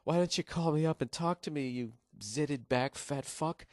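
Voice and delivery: lightly voiced late-night hottie; a hint of a come-on from a phone-line girl; mock hotline hottie. Hottie pitching to lonely late-night viewers, lightly mocked come-on. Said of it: "these ridiculously hot women".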